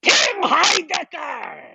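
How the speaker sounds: announcer. Acted. Host introduces guest to applause.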